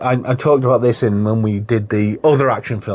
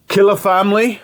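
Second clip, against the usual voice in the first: raised pitch, an indignant question thrown back; lightly mimicked film gangster, higher voice; Al Pacino impression; 7 semitones higher than usual. Co-host retelling a film scene, Pacino impression. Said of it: "Al Pacino's like".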